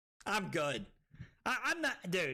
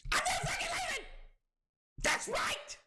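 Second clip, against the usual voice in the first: defiant shout. Acted. Quoting a film defiantly.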